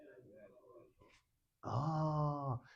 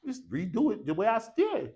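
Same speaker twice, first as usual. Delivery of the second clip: lightly voiced student, pitched higher; breezy realisation, pitched up; confident student; 6 semitones higher than usual. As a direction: voice a student who suddenly gets it. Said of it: "Now it's like, oh".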